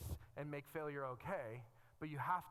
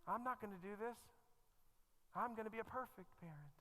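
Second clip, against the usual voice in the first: put-on higher, self-assured teenage boast; smug young self; 6 semitones higher than usual. Young self sure he'll be a perfect parent, smug boast. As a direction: play the cocky kid who knows better. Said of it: "I thought, like, my mom was crazy".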